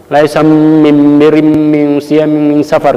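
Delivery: Bani Tamim dialect, slow with droning m's. Shown as a demonstration. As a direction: stretch every "mim" in "mim siyami mim safar" into a long hum, Bani Tamim style. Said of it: "Kalau divisualkan begitu". (logat Bani Tamim, pelan dengan dengung mim panjang)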